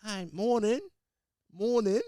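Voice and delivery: high, loud country-town Australian greeting; country Australian accent. Retold or imitated. Ordering coffee in a little country town, rural Australian accent. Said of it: "past Wollongong to little country town".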